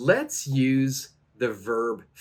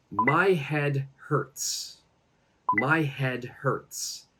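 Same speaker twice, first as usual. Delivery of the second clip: slow, measured example for learners; slow model phrase; much slower than usual. Shown as a demonstration. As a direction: teach the phrase word by word.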